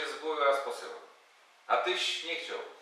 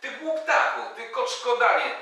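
higher, louder stream of name-calling; rising insult tirade; 7 semitones higher, 3 dB louder than usual. Acted. Marcin berating the robber, rising angry tirade. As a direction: pile on the insults, climbing.

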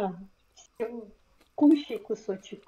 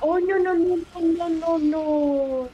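alarmed; 7 semitones higher, 3 dB louder, slower than usual. Real, not acted. Alarm at enemy.

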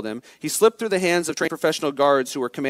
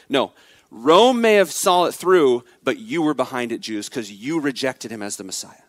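accusing. Acted. Peter's accusation voiced.

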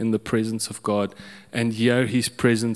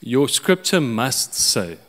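demanding God. Retold or imitated. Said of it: "I told God".

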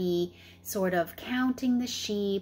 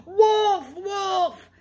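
high, loud fake alarm call; 11 semitones higher, 6 dB louder than usual. Shepherd boy crying wolf to the village again, loud call. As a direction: call it out over the hill. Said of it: "I'm gonna call out again".

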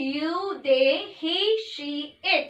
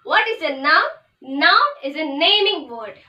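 very slow and louder, every word separate; slow dictation; 4 dB louder, much slower than usual. Shown as a demonstration. Teacher repeating the definition for notes, slow dictation. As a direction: say it so the class can write it down. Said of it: "definition repeated for copying".

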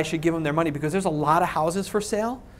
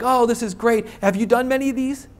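higher-pitched, nicely put question; imitating nice seller; 5 semitones higher than usual. Seller politely asking the buyer about past deals, nice way. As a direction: ask it sweetly, as a friendly seller would. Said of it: "ask in a nice way".

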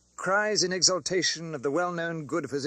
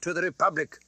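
crowd's cry; 6 semitones higher than usual. Acted. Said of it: "cried the audience".

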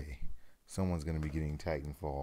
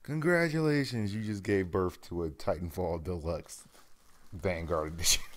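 grand announcement; 6 dB louder than usual. Pretend. Mock birth announcement after pushing.

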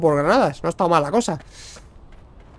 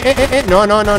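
ordinary talk

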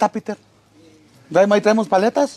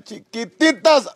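drawn-out quote; 3 semitones higher, much slower than usual. Retold or imitated. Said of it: "Como dijo el cabeza de coquena".

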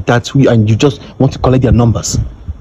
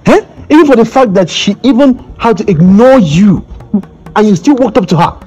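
fiancé scolding the man who approached his woman, indignant and higher-pitched; raised, indignant rebuke; 5 semitones higher than usual. Acted. Fiancé confronting a rival over his fiancée, indignant.

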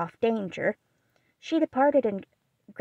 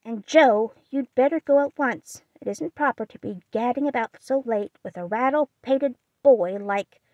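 louder, higher stern aunt; stern old aunt; 3 semitones higher, 4 dB louder than usual. Acted. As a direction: order her home. Aunt orders Jo home.

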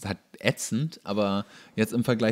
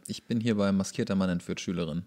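laughing; 3 semitones lower, 4 dB quieter than usual. Real, not acted. Laughs while reading title.

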